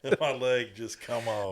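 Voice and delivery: casual, understated imitation; mock nonchalant. Co-host echoing the movie line back, nonchalant. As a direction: echo the line as if it hardly matters. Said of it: "Just all nonchalant".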